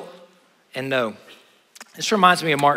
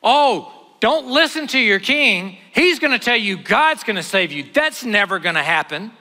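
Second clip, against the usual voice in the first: mocking Sennacherib; 5 semitones higher, 4 dB louder than usual.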